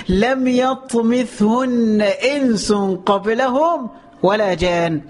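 very slow melodic chant; drawn-out tajweed recitation; Quran recitation. Acted. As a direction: intone it slowly, stretching the vowels.

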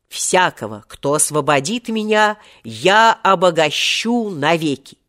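solemn vow. Acted. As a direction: declaim a generous oath, pitch lifting. Genie recalls his first generous vow. (торжественная клятва)

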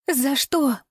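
high, terrified gasp of a question; terrified rasp. A narrator's reading. Woman choked by her captor gasps why, high and terrified. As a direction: ask it as if choking with fear. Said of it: "прохрипела она".

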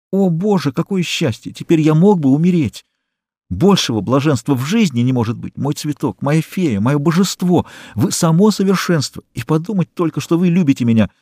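high, breathless bliss; soaring with joy; ecstatic rapture. A narrator's reading. Eugene to Susanna after the kiss, high ecstatic rapture.

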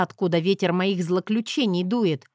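ordinary delivery

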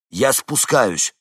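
decide and say it firmly; resolute. A narrator's reading. Vincent tells Henni over headphones, resolute. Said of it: "решительный голос Винсента".

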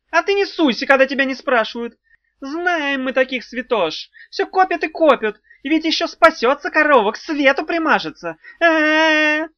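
high, loud venomous hiss; hissing snarl. A narrator's reading. Imp hisses back at the witch who butted in. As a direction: spit the words at her like a snake. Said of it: "прошипел Тухламон".

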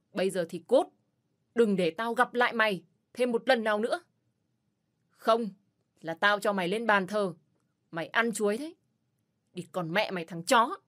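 loud, furious threat; menacing yell. Acted. Rescuer shouting the beaten man out, furious. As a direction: drive him out with every word.

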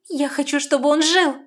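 loud, high insistent cry; firm declaration. A narrator's reading. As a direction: insist with conviction. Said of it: "убеждённо заявила девушка". (убеждённый возглас)

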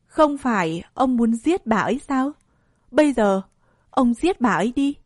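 "giết" picked out with measured weight; deliberate, evenly weighted challenge; word-by-word emphasis. A narrator's reading. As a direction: stress each word of "ông giết bà ấy đi". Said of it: "nhấn từng chữ".

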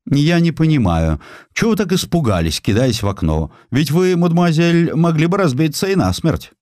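высоко, с издёвкой, как недоумевающий прокурор; передразнить глупого прокурора; насмешливый прокурор. Retold or imitated. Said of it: "Прокурор занял в этом процессе глупейшую позицию". (прокурор с высоким насмешливым недоумением)

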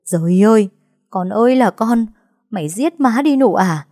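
high wailing mother's cry; a mother crying out, half sobbing; crying lament. A narrator's reading. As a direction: wail as if your daughter ruined you. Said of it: "vừa khóc vừa đánh vào vai Nụ".

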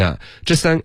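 ordinary talk

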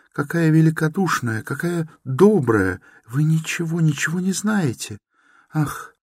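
put-on high, anguished pleading girl; a distraught young woman defending her stepmother; desperate pleading. A narrator's reading. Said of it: "точно в отчаянии, волнуясь и страдая".

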